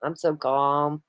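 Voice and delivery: slow, sarcastic "I'm so calm"; mock calm. Friend drawls her claim of being calm, mock sarcastic. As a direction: drawl it out, plainly not calm. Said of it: "You sound like it".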